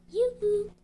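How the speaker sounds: high, loud yoo-hoo; calling out. A narrator's reading. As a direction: call across to the neighbour at high pitch. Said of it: "All night she called out".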